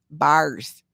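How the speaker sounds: bars with a broad, rounded Minnesota vowel; Minnesota accent. Shown as a demonstration. Answering a viewer's question about her accent, saying bars Minnesota-style. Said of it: "definitely the Minnesota accent".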